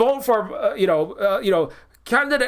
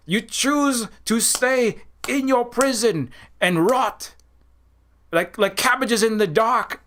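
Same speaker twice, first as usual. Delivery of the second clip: mock-dramatic scolding, pitched up a little; imitated indignant rebel; 3 semitones higher than usual. Number Six berating passive prisoners, imitated indignant scolding. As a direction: scold the villagers in an imitated character voice. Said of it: "number six is like".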